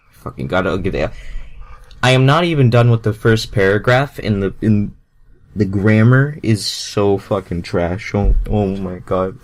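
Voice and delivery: exasperated rant. Real, not acted. Fed up with the bad grammar.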